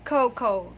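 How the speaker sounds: two clear long O sounds in cocoa; correct pronunciation. Shown as a demonstration. Teacher giving the class the right way to say cocoa, correct pronunciation. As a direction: say cocoa as KOH-koh. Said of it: "but it is".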